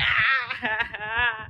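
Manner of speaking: real sobbing while telling it; crying while retelling the hug. Real, not acted. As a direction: sob through the words.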